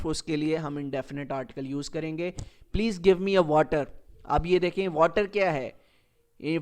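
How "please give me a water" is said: slow wrong example. Shown as a demonstration. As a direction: say it slowly, with a plain "a" before water. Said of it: "یہ ہمارا question غلط ہوا". (غلط جملہ، آہستہ "a water")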